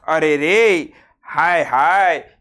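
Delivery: slow, mournful "हाय हाय"; drawn-out lament. Shown as a demonstration. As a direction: stretch it out like a lament. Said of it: "हे शोक दाखवतात".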